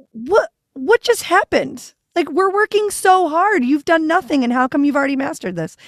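high-pitched mock indignation, easing down at the end; incredulous protest. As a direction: replay a baffled, exasperated complaint. Retold stunned complaint at friend's success.

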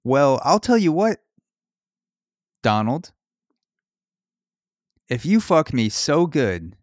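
hammed-up teacher, high, loud and slow; Stormy Daniels. Stormy as teacher answers schoolboy Trump, teasingly hammed up. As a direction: swoop through it in mock intrigue. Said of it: "And Stormy would go".

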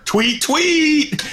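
high chirpy tweet tweet like a little bird; mock birdsong; playful bird chirp. Imitating Twitter bird chirps.

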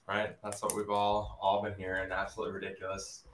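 breathless after push-ups; out of breath. Real, not acted. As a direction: talk while catching your breath. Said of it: "I'm still out of breath".

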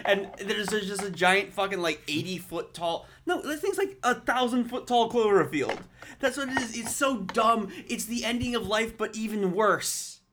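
high, loud exasperated ranting; extra mad. Retold or imitated. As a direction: rail at how dumb it is. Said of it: "I was so mad".

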